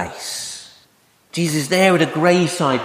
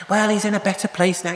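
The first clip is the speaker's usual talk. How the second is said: higher, quick stock condolence; mock consoling; 4 semitones higher, faster than usual. Preacher imitating a phrase for the bereaved, mock consoling. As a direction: imitate someone offering pat comfort.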